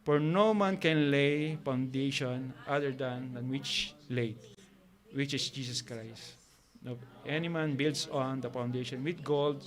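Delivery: soft, slow Bible reading, word by word; slow scripture reading. Acted. Bible study leader reading the verse aloud, slow and careful. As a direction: read the verse slowly to the congregation.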